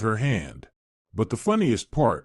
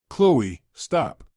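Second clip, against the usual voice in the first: pleading. Acted. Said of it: "Archie begged".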